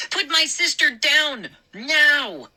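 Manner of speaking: high loud demand; shouted order. A narrator's reading. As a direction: bark the order. Brother yelling at gnomes.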